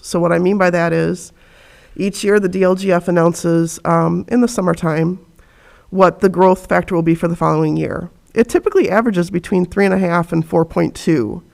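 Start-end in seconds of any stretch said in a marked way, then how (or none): 1.9-11.4 muffled speech through a face mask. Real, not acted. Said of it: "Can you understand me okay with the mask on?".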